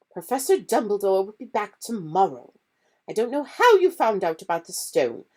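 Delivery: clipped teacher putting pupils in place; stern McGonagall. Acted.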